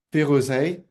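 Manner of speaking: name said with a light French accent; a playful hint of French on the name. Real, not acted. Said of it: "trying to pronounce it with a French accent".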